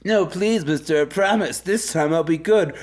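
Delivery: lightly hammed-up begging student; mock pleading. Acts out student begging for mercy.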